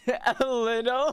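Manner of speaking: incredulous. Real, not acted. Incredulous echo.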